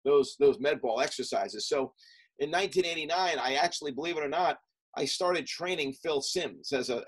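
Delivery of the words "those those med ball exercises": lightly imitating a Southern coach's accent. Strength coach inviting the young athlete, in a mild Southern accent. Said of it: "he's like, in his Southern accent".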